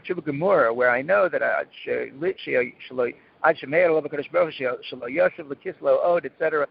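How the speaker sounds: ordinary delivery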